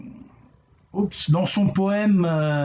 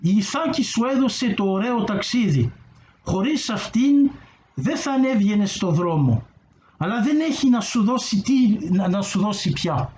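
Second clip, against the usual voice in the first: reading in Greek; 2 semitones higher, faster than usual. Shown as a demonstration. Speaker shares the poem extract in original Greek, reading aloud. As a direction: read the verse aloud in Greek, lightly lifted. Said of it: "vous le lire en, en grec".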